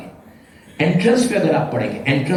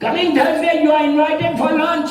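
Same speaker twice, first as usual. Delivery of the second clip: very slow, high, otherworldly announcement; eerie grave voice; 10 semitones higher, much slower than usual. Retold or imitated. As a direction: stretch each word like a voice from the tomb. Voice answering from the grave. (قبر سے آتی ہوئی دھیمی پراسرار آواز)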